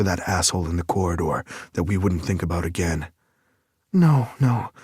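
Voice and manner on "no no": higher, louder, sharp female challenge; indignant heroine, raised and higher; Lake's voice. A narrator's reading. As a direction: whirl on him with an indignant question. Lake voiced by narrator.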